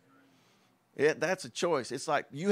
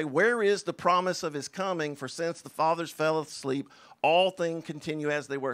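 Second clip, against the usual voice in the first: mocking scoffer; 3 dB louder than usual. Preacher voicing scoffers who doubt the second coming, mildly mocking. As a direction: play the doubter brushing off "Where is the promise of his coming?". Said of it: "they're gonna say".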